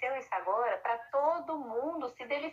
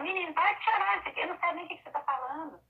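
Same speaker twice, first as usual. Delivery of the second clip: higher mock scold, settling by the end; scolding parent; 6 semitones higher than usual. Parent scolds a crying boy, higher impatient voice. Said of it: "Não é ficar falando".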